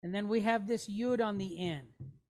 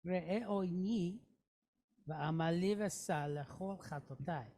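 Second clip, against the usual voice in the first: smoother, quieter run through the whole line; softer fluent reading; 4 semitones lower, 6 dB quieter than usual. Shown as a demonstration. Teacher reading the sentence through for students, softly. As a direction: read it through at a natural pace, softly.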